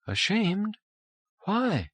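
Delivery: high, amazed question; astonished disbelief. A narrator's reading. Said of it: "looked at him in amazement".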